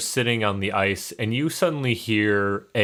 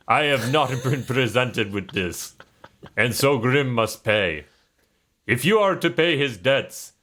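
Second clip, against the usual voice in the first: put-on Russian accent; 2 semitones higher than usual. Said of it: "this is gonna go Russian".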